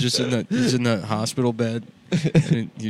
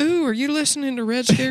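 high, sing-song drag queen; 13 semitones higher than usual. Retold or imitated. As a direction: camp it up way high. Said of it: "He's like".

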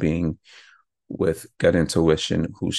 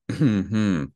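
approving hum; 4 semitones higher than usual. Shown as a demonstration. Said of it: "sacral is responding positively".

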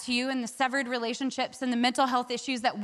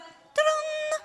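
magic flourish sound; 13 semitones higher than usual. Retold or imitated. Acts out instant magic result.

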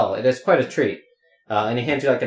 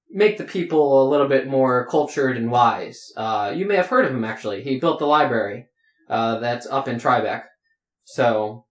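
lightly voiced giddy guard guide; giddy tour guide. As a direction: show them round like a teary, happy guard. NPC guard speaks as tour guide.

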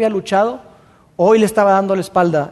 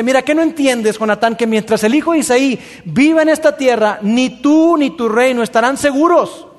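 angry king. Acted. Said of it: "Saúl está muy enojado".

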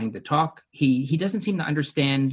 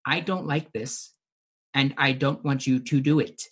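robotic voice. Retold or imitated. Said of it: "she even says very robotically too".

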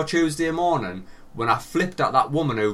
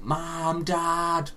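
calling for parents; 4 semitones higher than usual. Retold or imitated. Calls parents in nightmare.

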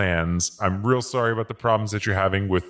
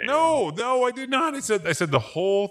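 much higher desperate protest; panicked denial; 12 semitones higher than usual. Acted. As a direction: plead frantically for your life.

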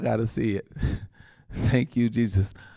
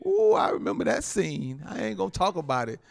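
usual speaking voice

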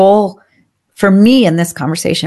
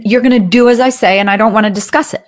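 mock aggressive; faster than usual. Shown as a demonstration. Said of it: "That's super aggressive".

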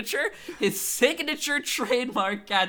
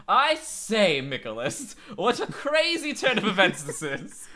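evil Goofy voice. Pretend. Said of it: "What's evil Goofy like?".

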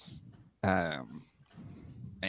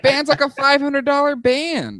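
high, loud laughing disbelief; can't believe the price; shocked disbelief; 5 dB louder than usual. Real, not acted. Shocked at the cheap sale.

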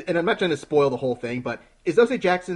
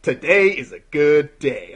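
mock rapper line; 9 dB louder, much slower than usual. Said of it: "it's like".

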